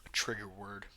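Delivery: breathy unvoiced repeat; whisper. Shown as a demonstration. Repeating the killer's excuse to viewers, in a whisper. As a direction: hiss the phrase back in disbelief.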